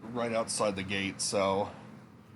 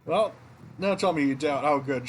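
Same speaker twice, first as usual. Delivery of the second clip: high-pitched, louder trophy reveal; impressed game character; 6 semitones higher, 4 dB louder than usual. Acted. Inn worker recognizes the entertainer's trophy, high impressed character voice. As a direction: play up the grand award.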